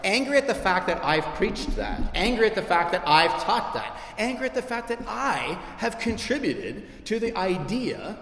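emphatic, indignant repetition, pitch climbing; controlled exasperation at oneself; retold anger. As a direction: hammer each repeated phrase with mild indignation. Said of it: "and I'm so angry".

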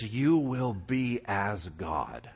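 slow, drawn out, unlike the speaker's own voice; sly serpent promise. Retold or imitated. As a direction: let it hang like a temptation. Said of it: "he's like".

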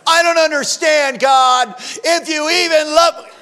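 high, pleading mock complaint to God; imitating a hurt believer questioning God's love; doubting believer. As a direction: whine it up to God, half-mocking. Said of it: "And you're like".

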